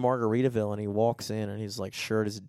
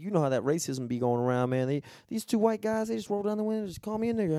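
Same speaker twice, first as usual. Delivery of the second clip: imitating the scammer's story; 8 semitones higher, faster than usual. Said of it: "he was like".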